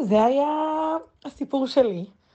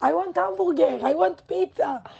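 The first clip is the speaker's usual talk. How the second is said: put-on high, demanding drunk voice, slowing down; mock the tipsy friend ordering room service; imitating drunk friend yelling; 8 semitones higher, much slower than usual. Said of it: "וצועקת להם".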